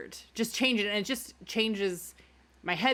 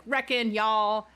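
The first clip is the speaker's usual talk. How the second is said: Western accent; 3 semitones higher, 4 dB louder, slower than usual. Shown as a demonstration. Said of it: "a Western accent".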